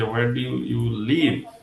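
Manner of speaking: "live" picked out in contrast, falling; stress on LIVE. Shown as a demonstration. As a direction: hold back, then land on "live". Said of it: "থাকো কোথায়?".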